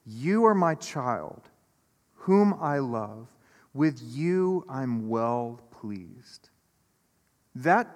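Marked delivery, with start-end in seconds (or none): 0.0-6.5 slow, tender, hushed words of a loving father; voice of God's blessing. Acted. God blessing his beloved child, slow and tender. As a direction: bless them gently, taking your time. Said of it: "could hear a blessing".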